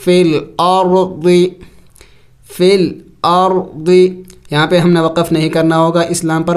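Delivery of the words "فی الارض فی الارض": slow, measured chant of فی الارض; drawn-out Quranic reading. Shown as a demonstration. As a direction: recite فی الارض slowly, each sound full. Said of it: "ضاد زیر دی".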